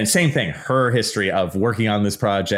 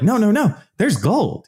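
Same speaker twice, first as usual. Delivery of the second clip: much higher and louder pleading; mock desperate insistence; 12 semitones higher, 3 dB louder than usual. Host pleading with bored listener about gold, mock desperate. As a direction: beg them to care about the gold.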